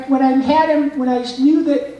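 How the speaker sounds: put-on high shy kid with affected L's; high-pitched awkward kid voice; Carl Weezer. Shown as a demonstration. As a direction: slip into the small cartoon boy and mangle the L's. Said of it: "if he said any character with an L".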